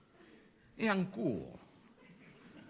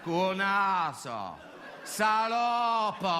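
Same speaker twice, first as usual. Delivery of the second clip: shouted insults; 4 semitones higher, much slower than usual. Acted.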